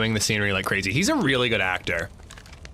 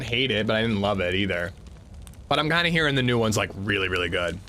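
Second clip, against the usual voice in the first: talking while chewing; words through a mouthful of food; mouth full; 4 semitones lower than usual. Real, not acted. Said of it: "sorry for talking with my mouth full".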